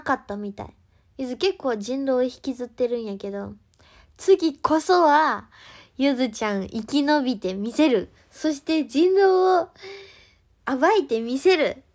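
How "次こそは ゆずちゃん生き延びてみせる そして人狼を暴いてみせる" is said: determined vow. Pretend. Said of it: "いう意気込みね".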